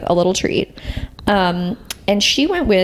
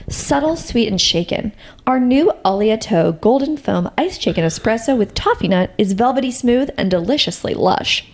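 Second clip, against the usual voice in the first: lightly put-on broadcaster read of ad copy; a hint of smooth radio promo; 2 semitones higher than usual. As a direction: read it like an announcer, savouring the description. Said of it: "I put on my broadcaster voice for that".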